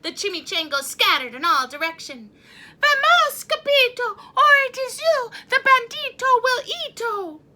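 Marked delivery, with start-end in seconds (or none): 2.8-7.4 high, loud urgent yell; urgent shout. Acted. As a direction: warn him to run now. Chihuahuas urgently warn.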